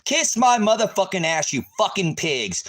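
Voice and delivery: full-throated enraged yell, pitch shooting up; furious shout. Real, not acted. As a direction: scream it high and loud at the cops. Yelling insults at sheriff's deputies.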